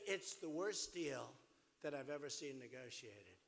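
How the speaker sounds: drawn-out, slow verdict; slow emphatic quote. Retold or imitated. Telling the crowd about the deal, slow. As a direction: lean on every word. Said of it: "I used to say".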